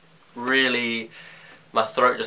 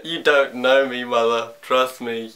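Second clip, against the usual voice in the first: cheeky, raised voice; sassy retort; 2 semitones higher, 3 dB louder than usual. Retold or imitated. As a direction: talk back to mum with sass. Sassy retort to his mum.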